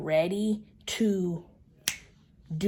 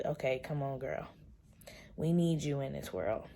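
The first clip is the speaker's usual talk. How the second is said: getting emotional; 4 semitones lower, 7 dB quieter than usual. Real, not acted. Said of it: "I'm getting emotional".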